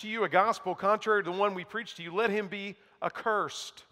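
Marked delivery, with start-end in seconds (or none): 2.1-3.8 each word slow and weighted; slow emphatic. Shown as a demonstration. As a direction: let it land, slowly and grave. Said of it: "Strong language".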